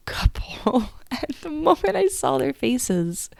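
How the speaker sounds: laughing through the words, pitch climbing; real emotional laugh. Real, not acted. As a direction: let an overwhelmed laugh lift your voice. Overcome on recalling the discovery.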